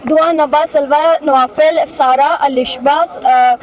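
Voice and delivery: rushing names without a breath; in one breath. Real, not acted. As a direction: list them all on a single breath. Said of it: "एक सांस में बता दें". (एक सांस में)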